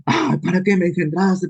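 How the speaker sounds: lightly voiced complaining baby; a hint of a newborn whining; whiny baby. Preacher voicing a baby who complains about being born, lightly whiny. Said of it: "¿Te imaginas un bebé?".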